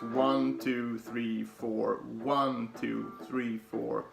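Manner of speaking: slow, even count with the beat; counting beats aloud. Shown as a demonstration. Teacher counting along to a guitar pattern, slow even count. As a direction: count out each note steadily. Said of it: "we'll start like this".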